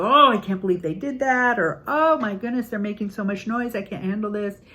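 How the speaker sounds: mock frazzled parent. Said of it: "Reacting to".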